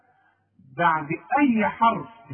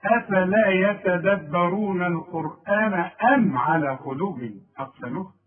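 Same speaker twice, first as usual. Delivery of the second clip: Quran recitation. Shown as a demonstration. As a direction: recite with measured tajweed. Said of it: "recites verse".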